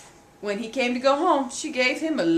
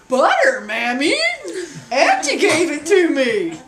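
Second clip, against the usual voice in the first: put-on child's voice; 3 semitones higher, 6 dB louder than usual. Boy answers mammy, laughing.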